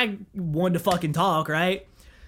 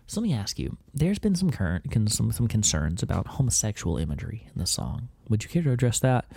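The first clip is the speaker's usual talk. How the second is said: lower, softer, smooth radio host voice; lightly voiced lower radio host; radio interviewer; 7 semitones lower, 4 dB quieter than usual. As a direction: play the mild, probing DJ. Christian radio interviewer questioning.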